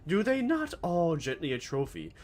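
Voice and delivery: grand dramatic recitation. Acted.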